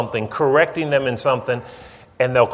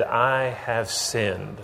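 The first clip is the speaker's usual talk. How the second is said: humble confession; 2 semitones lower, 8 dB quieter, much slower than usual. Retold or imitated. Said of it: "he just simply said".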